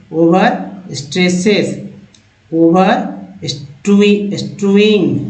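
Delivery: "ओवर स्ट्रेसेस" read slowly for students to follow; slow it down so the class can repeat; slow read-along. Shown as a demonstration. Teacher reading "ओवर स्ट्रेसेस" slowly to learners. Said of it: "पढ़िए हमारे साथ".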